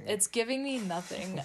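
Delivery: laughing. Real, not acted. Echo with laugh.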